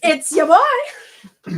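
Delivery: slow, loud, high hype intro; YouTuber intro voice. Retold or imitated. Quoting a favourite YouTuber's intro, slow hyped voice. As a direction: draw out the catchphrase like a host.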